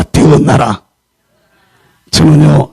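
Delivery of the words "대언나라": 대언나라 said low with a firm falling end; call to repeat. Shown as a demonstration. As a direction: lead the congregation in 대언나라, falling. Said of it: "따라서 합시다". (대언나라를 낮게 끝을 내리며 따라 하게)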